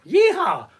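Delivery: high, loud yeehaw; big rowdy holler; whooped cheer. Retold or imitated. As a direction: whoop it out like a cowboy. Whooping round the roundabout.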